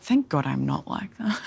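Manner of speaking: laughing through the words; amused, breaking into a laugh. Real, not acted. Laughing at her friend.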